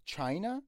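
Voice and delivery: "China" stressed on "Chi", rising as a question. Shown as a demonstration. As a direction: hit the opening of "China", lift the end. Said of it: "رو سی اچ هست استرس".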